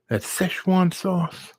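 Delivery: high, slow, drawn-out Szechuan sauce; drawn-out eager ask. Retold or imitated. Father repeats the sauce name slowly, high and eager. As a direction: savour the word Szechuan.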